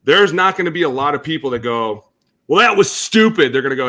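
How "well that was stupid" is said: mock scoff. Critics mocked in quote.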